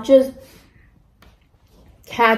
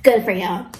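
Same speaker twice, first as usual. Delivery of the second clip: snide; 3 semitones lower than usual. Retold or imitated. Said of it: "it was, like, so mean".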